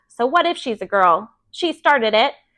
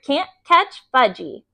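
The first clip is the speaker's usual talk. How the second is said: put-on toddler taunt; 3 semitones higher, slower than usual. A narrator's reading. Toddler teasing, slow.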